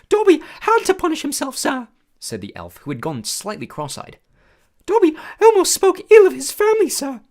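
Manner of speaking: high, loud squeaky elf voice; a small eager servant creature, awed; squeaky house elf. A narrator's reading. House elf greeting Harry, high squeaky and awed. Dobby voice.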